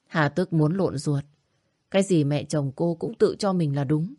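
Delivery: usual speaking voice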